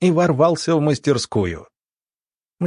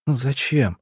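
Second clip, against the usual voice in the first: trembling; 3 semitones higher than usual. Acted. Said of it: "её голос дрожал".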